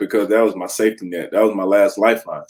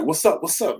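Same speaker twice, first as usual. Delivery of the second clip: hyping himself up; 6 semitones higher, 5 dB quieter than usual. Retold or imitated. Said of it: "people try to get hyped".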